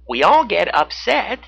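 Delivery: high, loud beaver voice; Baxter. A narrator's reading. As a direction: chime in as an eager beaver. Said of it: "Baxter the beaver added".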